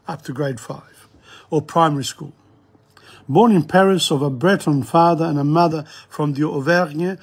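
measured read-aloud, phrases opening firmly; formal, articulated reading of an introduction; formal literary reading. Real, not acted. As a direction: read out a poet's biography like a lecturer.

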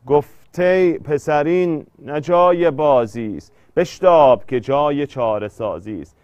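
measured verse reading, stressing the metre; declaimed classroom verse; poem recitation. Acted. Reads a verse aloud for scansion.

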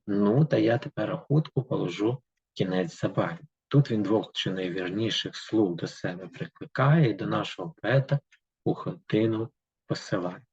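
steady, rhythmic reading of verse; poem reading. Acted. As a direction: read the fairy tale in verse to the class. Reads the poem aloud. (читання вірша вголос)

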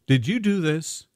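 loud, high demanding question; angry demand. A narrator's reading. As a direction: demand an answer, furious. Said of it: "Keisha demanded".

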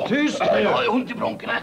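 hush. Acted. Sudden hush, aching bronchi.

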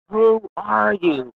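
slow, high astonished question; amazed boss. Retold or imitated. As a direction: retell the boss stunned by her, drawn out and high. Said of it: "he's like".

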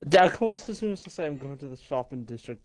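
strong Welsh lilt; Welsh accent. Real, not acted. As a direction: say it in broad Welsh. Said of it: "your Welsh accent right there".

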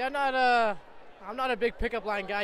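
ordinary talk, nothing marked

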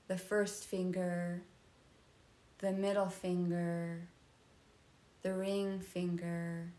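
soft, unhurried body-scan voice; guided meditation. Real, not acted. Yoga teacher leading a nidra body scan, calm guided meditation. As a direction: guide them into rest, part by part.

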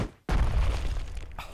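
short burst of laughter. Real, not acted. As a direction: break into a brief laugh. Laughs at the game. (kısa bir kahkaha)

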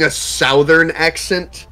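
"southern" said with "sow" as first syllable; mispronounced southern. Retold or imitated. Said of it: "that's not how you say southern".

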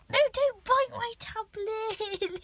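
slow it down and scold firmly. Real, not acted. Owner scolding cat off her tablet, slow firm no.

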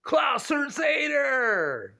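high, slow, loud teasing call; playful shout-out. Pretend. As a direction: call the viewer's name out loud like across a yard.

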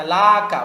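"লাকা" with a thick back-of-mouth "qaw" ending; wrong heavy kaf. Shown as a demonstration. Teacher forbidding a mistake, "লাকা" with heavy qaf. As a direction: round and deepen the "ক" in "লাকা" into qaf. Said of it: "লাকা বলা যাবে না".

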